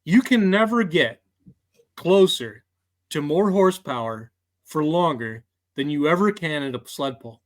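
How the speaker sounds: lightly put-on salesman pitch, measured pauses between phrases; a hint of a promo salesman. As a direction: pitch it like a salesman, punching the opening. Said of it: "put my salesman voice on here".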